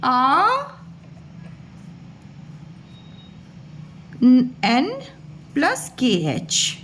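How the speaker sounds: आ, एन, plus के एच spelled out slowly; phonetic breakdown. Shown as a demonstration. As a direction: break आँख into its sounds, slowly. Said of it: "इसकी phonetic sound होगी".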